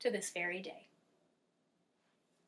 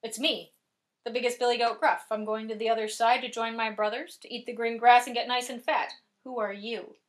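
bold billy goat; 3 dB louder than usual. Acted.

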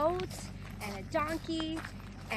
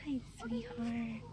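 tender coo; 2 semitones lower, 5 dB quieter, slower than usual. Real, not acted. Cooing softly at cow.

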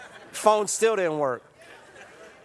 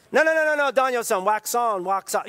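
Miyagi correcting; 3 semitones higher than usual. Retold or imitated. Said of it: "Miyagi correcting Daniel".

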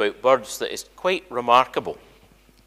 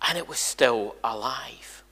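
breathy whisper for suspense; dramatic whisper; 9 dB quieter than usual. Acted. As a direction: drop to a hush to build the moment. Dramatic turn in owl story.

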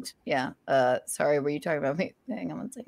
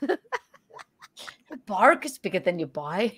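laughing; slower than usual. Acted. Repeating dog line laughing.

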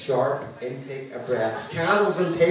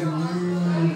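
crowd ooh; 5 dB quieter than usual. Retold or imitated. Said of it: "the whole room went".

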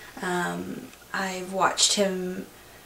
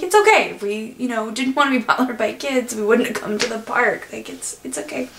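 reassuring; 4 semitones higher than usual. Retold or imitated. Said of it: "we're like".

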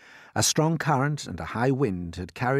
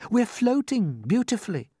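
pitched-up, lightly voiced boy; calm young James; 13 semitones higher, 4 dB louder than usual. A narrator's reading. James reassures the frightened creatures, calm. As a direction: reassure them simply, as the boy. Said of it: "said James calmly".

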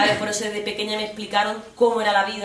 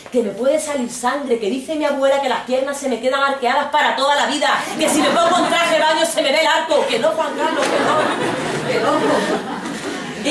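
a raised, pleading mock mother voice; hammed-up protesting wife, louder; mother refusing; 4 semitones higher, 4 dB louder than usual. Mother refusing father in a retold story, mock pleading.

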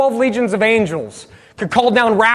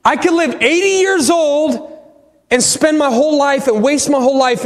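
higher-pitched, impassioned astonishment; passionate; 5 semitones higher than usual. Retold or imitated. Dad working out the gospel with his son, passionate. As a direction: pitch it up, full of feeling. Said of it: "now he gets all passionate on me".

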